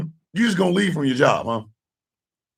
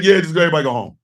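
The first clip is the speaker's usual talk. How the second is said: mocking Mike Johnson; much faster than usual. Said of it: "Mike Johnson was like".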